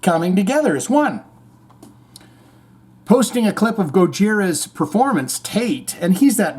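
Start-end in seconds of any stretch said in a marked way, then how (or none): 0.0-1.2 mock conspirator. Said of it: "created the Olympics went".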